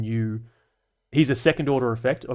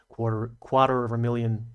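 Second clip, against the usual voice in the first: attempted American accent. Shown as a demonstration. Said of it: "how do you say quarter as an American?".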